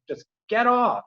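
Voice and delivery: high, held-back mock yell; retold yelling. Viewer recounting protests at the TV, held-back yelling. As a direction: plead it high without full volume. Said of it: "like, yelling".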